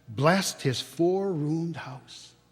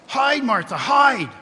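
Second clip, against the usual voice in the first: put-on high, loud urgent kids' shout; children urging; 8 semitones higher, 8 dB louder than usual. A narrator's reading. Little children urge their sister to hide, high shouted. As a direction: shout it like a playful secret. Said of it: "cried the two young Cratchits".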